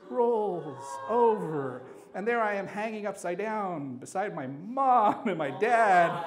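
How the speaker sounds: slow, stretched words for comic drama; drawn-out dramatic telling. Retold or imitated. Storyteller hanging upside down beside parents, drawn-out drama. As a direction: draw out each key word.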